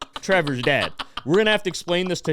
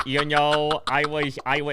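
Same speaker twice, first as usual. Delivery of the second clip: light impression of a lisping teen; lightly voiced stoned kid; imitating Trevor. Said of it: "this is exactly how he sounded".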